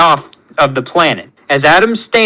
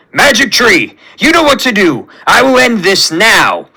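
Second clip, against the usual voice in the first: somewhat raised, declamatory battle voice; lightly voiced fighter, emphatic; bold warrior command; 4 semitones higher than usual. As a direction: give the order like a resolute warrior. Drax orders Groot in battle.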